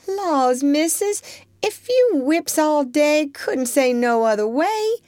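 put-on high pleading girl's voice; lightly voiced girl. Topsy's voice.

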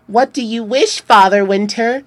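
tiny dancing sprites answering; high little snowflakes. A narrator's reading.

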